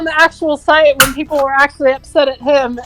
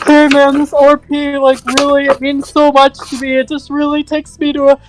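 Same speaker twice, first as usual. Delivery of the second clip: guilt-tripping whine; 2 semitones higher than usual. Retold or imitated. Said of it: "the douchebag guilt tripping mode".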